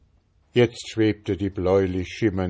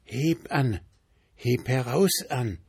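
ghostly whisper; 4 semitones higher than usual. A narrator's reading. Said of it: "flüsterte der Geist".

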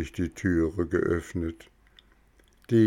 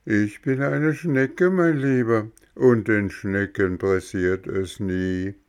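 slow unhurried snail; 3 semitones higher than usual. Acted. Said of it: "So langsam und gemächlich wie zuvor".

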